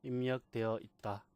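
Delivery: very slow, word-by-word read-out; demonstrated reading. Shown as a demonstration. Teacher shows beginners how to read a cell, slow demonstration. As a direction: stretch and separate each part for learners. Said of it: "이렇게 읽는 겁니다".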